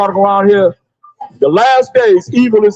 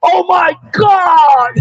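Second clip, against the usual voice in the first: mock terrified scream; 8 semitones higher, much slower than usual. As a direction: wail it like someone caught in a disaster. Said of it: "They be saying".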